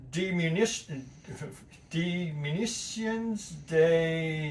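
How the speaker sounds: slow, halting attempt at French; French pronunciation. Real, not acted. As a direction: sound out a foreign title as if French, haltingly. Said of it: "why I did French pronunciation".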